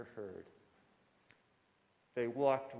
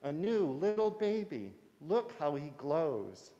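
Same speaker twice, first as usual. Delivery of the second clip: high, loud and wonder-struck; delighted fairy voice; 4 semitones higher, 6 dB louder than usual. Acted. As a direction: marvel at the glowing baby.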